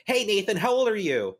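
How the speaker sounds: a lightly voiced creepy boss on the phone; mocking a creepy producer calling an actor on his birthday; imitating Dan Schneider. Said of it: "he's like".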